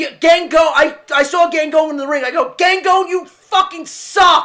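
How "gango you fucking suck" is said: full-throated, loud, acted screaming yell. Retelling heckling Gango from the boardwalk, retelling a loud scream. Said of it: "And I'm screaming it real loud".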